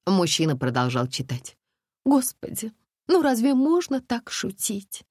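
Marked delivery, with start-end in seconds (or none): 2.0-5.0 higher, mildly outraged reproach; indignant. A narrator's reading. The woman scolds her joking seatmate, mildly indignant. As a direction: scold him for the joke. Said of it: "возмутилась женщина".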